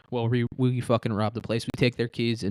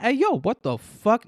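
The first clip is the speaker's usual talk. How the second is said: high, drawn-out hey yo what the fuck; loud, slow, pitched-up mock challenge; mock angry guy; 11 semitones higher, 4 dB louder, slower than usual. Comedian mocking an angry bystander. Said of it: "There's no black guys that are gonna be like".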